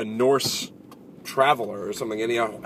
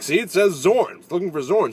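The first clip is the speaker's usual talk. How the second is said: high, loud, sing-out insistence; mock-indignant, pitched well up; insistent Norse traveler; 6 semitones higher, 4 dB louder than usual. Norse traveler showing his scroll to the villager, high insistent voice. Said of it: "he opens a scroll and he's like".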